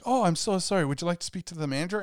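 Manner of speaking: lightly imitated polite agent, high start; apologetic phone agent. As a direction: rush a polite offer of the manager. Acting the film's apologetic agent.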